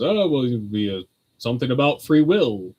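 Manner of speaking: lightly imitated distracted Churchill figure; distracted old statesman. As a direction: mumble a vague answer like an absent-minded Churchill. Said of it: "very distracted. He's like a Churchill figure".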